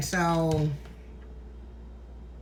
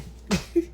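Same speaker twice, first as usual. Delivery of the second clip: breathy emotional laugh; 4 semitones higher, 3 dB quieter than usual. Real, not acted. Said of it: "I'm about to get emotional. Hold on".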